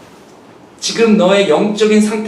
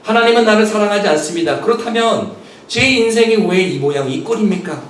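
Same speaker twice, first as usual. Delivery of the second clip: mock bitter complaint; 2 semitones higher than usual. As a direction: push back at God with a grumbling edge. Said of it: "거꾸로 밀어야 되는데".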